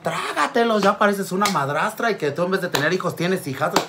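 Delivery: high, slow scolding granny; grandmother scolding. Retold or imitated. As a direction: scold the mother like a fierce grandma. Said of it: "mi abuelita".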